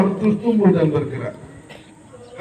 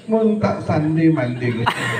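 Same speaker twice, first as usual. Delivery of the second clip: Madurese speaker; slower than usual. Retold or imitated. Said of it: "Dia jawab".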